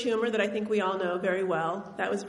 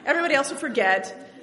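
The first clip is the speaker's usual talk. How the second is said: grandparents' plan to remarry her, said through laughter; laughing grandparents' quote. Retold or imitated. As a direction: giggle while voicing the eager grandparents. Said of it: "They're like".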